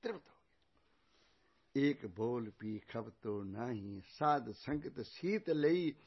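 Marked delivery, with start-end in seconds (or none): 1.9-6.0 very slow, measured sacred verse; scripture recitation. Acted. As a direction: stretch each word of the verse. (ਠਹਿਰ-ਠਹਿਰ ਕੇ ਗੁਰਬਾਣੀ ਦਾ ਪਾਠ)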